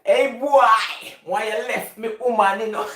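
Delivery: a hint of a gruff man, loud on the greeting; lightly put-on man voice; man's voice. Daughter fakes a man's voice on the phone to her dad. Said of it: "I can talk like man".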